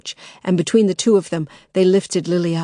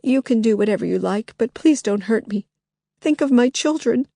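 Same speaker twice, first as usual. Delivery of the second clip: pleading; 4 semitones higher than usual. Acted. Begging not to be hurt.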